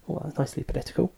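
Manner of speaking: fast, breathy whispered aside to himself. Real, not acted. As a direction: whisper it quickly under your breath. Whispered self-mocking aside.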